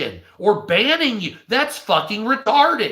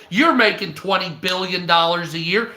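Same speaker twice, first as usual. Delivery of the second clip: normal talking voice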